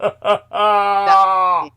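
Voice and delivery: dissolving into slow, loud laughter; can barely get the words out for laughing. Real, not acted. Telling the cohost her story, laughing hard.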